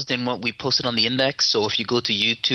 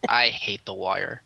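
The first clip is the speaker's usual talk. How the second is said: sarcastic; 2 semitones lower than usual. Acted. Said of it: "he's being sarcastic".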